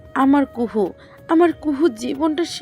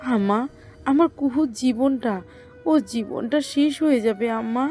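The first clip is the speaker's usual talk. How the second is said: distraught appeal to the mother-in-law; anguished, weeping plea; tearful pleading mother. Acted. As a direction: plead through tears for your daughter. কান্না থামাও ছোট বউ.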